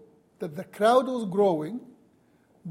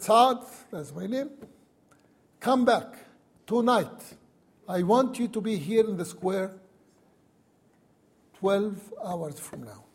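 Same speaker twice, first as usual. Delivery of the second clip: dramatic plea. Retold or imitated. Wife calls her husband to Cairo before the crowd, mock dramatic. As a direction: play it up like a grand public appeal, only lightly. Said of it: "in a very dramatic way".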